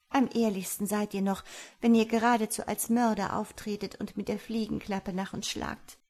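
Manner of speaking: a hint of an indignant fly maiden; lightly voiced accusing fly. Fly lists human cruelties to the farmer, mildly accusing.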